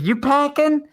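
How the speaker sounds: high-pitched mock challenge, rising sharply; imitated confrontational stranger. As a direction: imitate an agitated man repeating his question. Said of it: "couldn't understand what he was saying".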